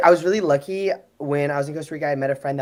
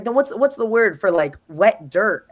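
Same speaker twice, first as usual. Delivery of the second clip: put-on slow, higher, lisping accented voice; imitating braces lisp; 5 semitones higher, 4 dB louder than usual. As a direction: lightly mimic a friend with braces and an accent. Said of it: "because of his accent and the braces".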